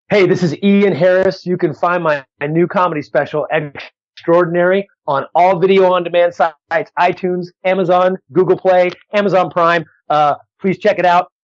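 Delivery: punchy radio plug, listing each item; promo drop. Real, not acted. Comedian redoes his drop after audio cut out, promo read. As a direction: deliver a show bumper, stretching the special's title. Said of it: "Let me do it again".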